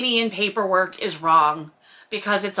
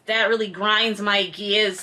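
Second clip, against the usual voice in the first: lightly voiced cartoon dad catchphrase, slow; a hint of the cartoon catchphrase delivery; Peter Griffin; slower than usual. Host quotes the Family Guy catchphrase, lightly voiced. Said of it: "Peter Griffin and his".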